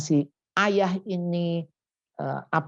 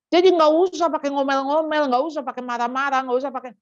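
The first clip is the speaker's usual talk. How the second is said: emphatic; 6 semitones higher, 4 dB louder, much faster than usual. Real, not acted. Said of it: "preaching emphatically".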